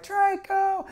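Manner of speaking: high strained yell, one word drawn out; mock Rocky scream. Impersonating Rocky for the congregation, high hammed-up yell. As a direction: belt it like a boxer calling out his rival. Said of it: "where he's just like".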